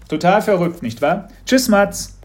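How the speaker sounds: a teacher fishing for a reaction; knowing teacher, probing. A narrator's reading. Teacher voiced in story.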